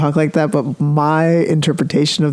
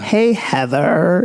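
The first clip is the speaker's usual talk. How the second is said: put-on slow, drawn-out Valley Girl greeting; hammed-up Valley Girl accent; 3 semitones higher, much slower than usual. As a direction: imitate a Valley Girl, dragging the vowels. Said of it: "The Valley Girl accent".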